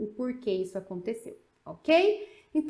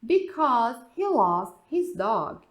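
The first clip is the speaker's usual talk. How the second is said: very slow, louder, stress on he; slow model answer; 6 dB louder, much slower than usual. Shown as a demonstration. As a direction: spell out the answer slowly. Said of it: "Aí você tem a resposta". (resposta lenta e marcada)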